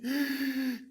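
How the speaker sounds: sharp, high gasp of joy; delighted gasp. Acted. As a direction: gasp as if overjoyed. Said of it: "기쁘셔가지고". (기쁨에 벅차 숨을 들이켜는 소리)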